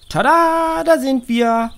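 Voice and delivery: put-on high, loud cheerful announcing girl; calling out. A narrator's reading. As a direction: burst in with a triumphant tada. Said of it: "ruft Tina".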